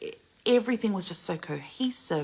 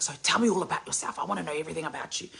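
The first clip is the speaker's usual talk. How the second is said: eager; much faster than usual. Retold or imitated. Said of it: "I'm all up in her face".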